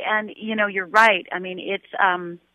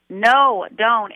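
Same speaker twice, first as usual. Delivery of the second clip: retold scream; 3 semitones higher, 5 dB louder than usual. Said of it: "and screamed".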